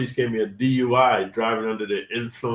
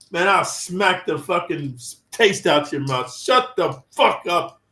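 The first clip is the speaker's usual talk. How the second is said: slow, mock-threatening comeback; angry retort; 3 semitones higher, slower than usual. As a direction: drag out the threat, punch the last words. Acted threatening retort to boastful relative.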